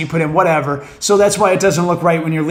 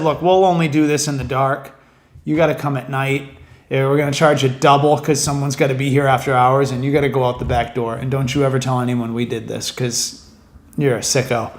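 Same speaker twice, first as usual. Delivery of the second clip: lower-pitched, confidential mock salon worker; mock secretive deal; 6 semitones lower than usual. Salon imagined setting terms for an after-hours haircut, mock secretive. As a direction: lay down covert terms in a low, even voice.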